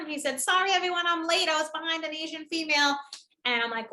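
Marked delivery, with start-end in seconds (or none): 0.4-3.0 would-be funny latecomer. Retold or imitated. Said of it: "thought he was being really funny".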